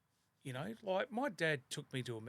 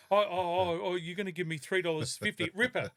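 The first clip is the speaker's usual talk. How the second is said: mock delighted kid; 4 semitones higher, 7 dB louder than usual. Kid voiced, delighted in story.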